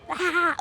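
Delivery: short high imitated scream at someone's face; a quick high mock yell like a bully. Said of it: "one of which has screamed in my face before".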